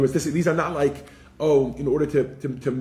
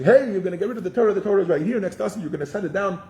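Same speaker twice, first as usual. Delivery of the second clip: hypothetical angels complaining; 6 semitones higher than usual. Retold or imitated. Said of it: "They weren't just saying".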